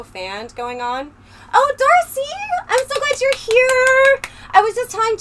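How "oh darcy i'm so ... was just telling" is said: much higher and louder, sugary overjoyed greeting; over-the-top sarcastic delight at the troll's arrival; gushing fake welcome. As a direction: gush over the troll as if thrilled.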